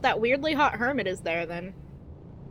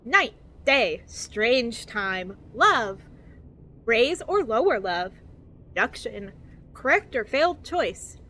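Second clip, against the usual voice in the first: over-enunciated guidebook narration, lilting up and down; cheery infomercial voice. Acted. Reading a survival guide to new players, cheery infomercial voice. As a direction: read it like a relentlessly positive infomercial. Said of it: "infomercial that's trying to be cheery and positive".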